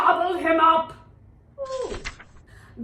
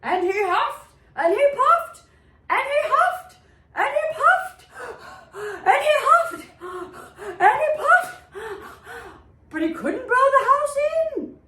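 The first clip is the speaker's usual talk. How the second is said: high and loud, building strain; straining effort; 7 semitones higher, 4 dB louder than usual. A narrator's reading. Narrator acts the wolf's huffing for the children, high and strained. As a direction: act the wolf straining harder each time.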